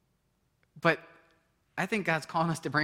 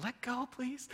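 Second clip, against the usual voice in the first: laughing plea; 7 semitones higher, 8 dB quieter, slower than usual. Retold or imitated. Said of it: "sometimes, like".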